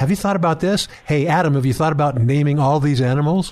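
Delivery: ordinary delivery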